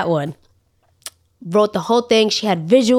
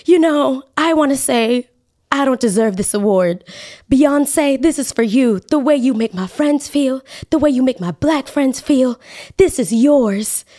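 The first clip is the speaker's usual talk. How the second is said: mock speech of a famous singer; 5 semitones higher than usual. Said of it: "She goes".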